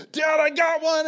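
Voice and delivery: high, loud mock yell of a thrilled kid; excited child's shout. Five-year-old calling Dad after hooking a fish, excited shout. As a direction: call out like an excited little boy.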